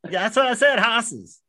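high, insistent New Orleans teacher, "horses" as "hosses"; New Orleans accent. Retold or imitated. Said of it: "this really funky accent".

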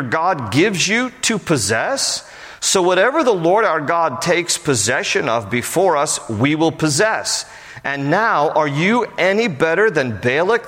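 formal Bible reading voice; scripture reading. Acted. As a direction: read the passage aloud to the congregation. Reads scripture aloud before explaining.

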